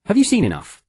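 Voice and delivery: icy, sharp high question; cold woman's voice. A narrator's reading. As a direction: cut in coldly. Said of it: "A cold voice suddenly broke".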